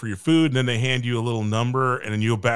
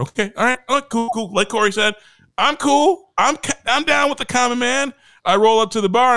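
mock cool bravado; 9 semitones higher, 6 dB louder than usual.

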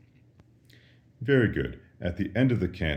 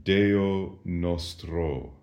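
slow model answer; much slower than usual. Shown as a demonstration. Teacher models Latin answer slowly.

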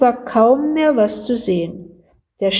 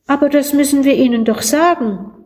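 put-on eager boy; 5 semitones higher, faster than usual.

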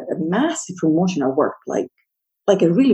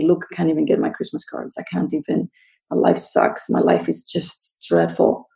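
mock self-pitying whine. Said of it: "cry my eyes out and say".

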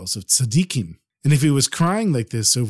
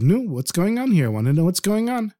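higher-pitched, mildly insistent demand; 5 semitones higher than usual. Acted. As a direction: press for an answer. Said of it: "he insisted and he said".

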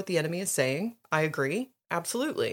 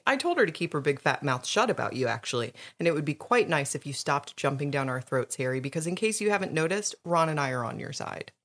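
mild calm; 3 semitones lower than usual. Acted. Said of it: "said Hermione calmly".

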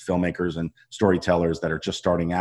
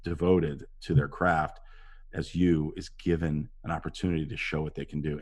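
low-key earnest tribute; sincere; 3 semitones lower, 7 dB quieter than usual. Retold or imitated. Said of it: "I just said".

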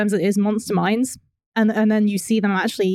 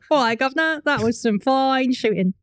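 mock Cockney; 4 semitones higher than usual. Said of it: "landed in a Cockney planet".

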